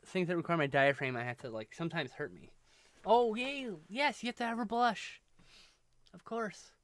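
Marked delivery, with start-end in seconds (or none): 3.0-6.7 high delighted squeal; excited. Real, not acted. Delighted by the drawing.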